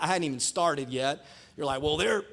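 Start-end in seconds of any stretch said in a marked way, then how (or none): 1.8-2.2 put-on country accent; a skeptic's drawn country accent. Pastor voicing skeptics before he has started, country accent. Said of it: "do this in a country accent".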